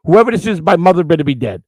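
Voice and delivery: mock roar at whoever is knocking; imitating angry brother. Brother woken by pounding on door.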